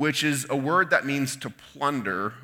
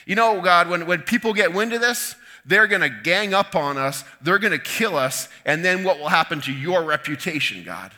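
pleading; 3 semitones higher than usual. Acted. Joshua keeps pleading with God.

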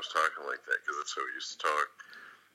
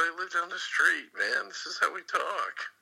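imitating his own Hispanic LA accent, higher and slow; 13 semitones higher, slower than usual. Telling coworker in break room his Hispanic accent is real. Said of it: "I was doing a Hispanic accent".

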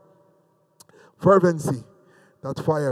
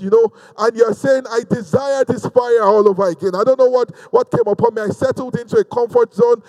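raised, driving sermon delivery; fervent preaching; 3 semitones higher than usual. Real, not acted. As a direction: preach it at the congregation with urgency.

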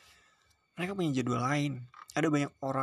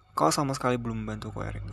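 threatening; 4 dB louder than usual. Acted. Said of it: "Suaraku mengancam".

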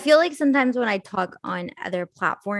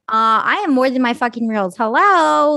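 exasperated retort; 4 semitones higher, 7 dB louder than usual. Retold or imitated. Retold comeback to critics.

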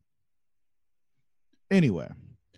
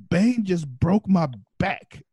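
mock injured employee; 7 semitones higher, 4 dB louder, slower than usual. Voicing injured worker.

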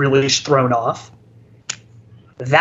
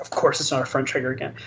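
grumbling rant; 3 semitones lower, 8 dB quieter, much faster than usual. Retold or imitated. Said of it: "he just kinda kept ranting".

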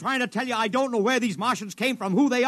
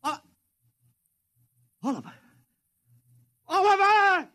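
calling out; 9 semitones higher than usual. Acted. Calling for missing assistant.

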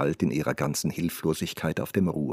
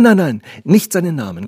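put-on high, loud, urgent girl; agitated, raised-voice protest; alarmed interruption; 8 semitones higher, 9 dB louder than usual. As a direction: cut in to stop a name being said. Girl cuts servant off.

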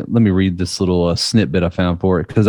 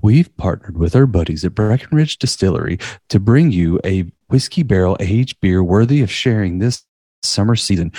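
announcer voice. Acted. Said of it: "let me get my announcer voice on".

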